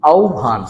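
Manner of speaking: আহ্বান with au glide and bh; correct pronunciation. Shown as a demonstration. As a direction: say আহ্বান as "aubhan". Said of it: "উচ্চারণটা হয়ে গেল কি".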